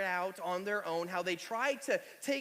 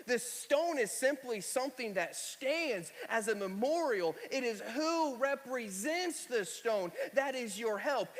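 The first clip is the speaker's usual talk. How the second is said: preaching; 2 semitones higher, slower than usual. Acted. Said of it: "I might start preaching here in a second".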